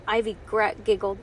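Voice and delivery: ordinary delivery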